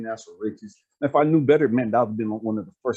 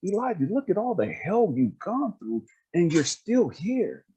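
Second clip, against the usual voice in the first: lightly voiced affirming speaker, pitched up; imitating an earnest, higher-pitched encourager; God; 5 semitones higher than usual. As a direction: build them up point by point, higher and emphatic. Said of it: "God was like".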